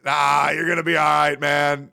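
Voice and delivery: a loose, sing-song reassuring friend; half-sung, easygoing comfort; LaRoe reassuring. Retold or imitated. Friend LaRoe comforting the scared speaker, sing-song. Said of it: "And he said".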